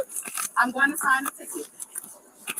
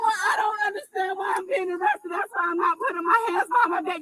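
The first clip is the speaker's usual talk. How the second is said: upset shouting; 4 semitones higher, 5 dB quieter than usual. Real, not acted. Upset woman resisting arrest.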